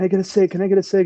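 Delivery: mock shouting, high and loud, crowd-like yell. Retelling fans at a bar calling out to a celebrity: imitating people yelling.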